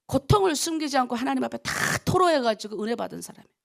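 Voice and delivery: normal talking voice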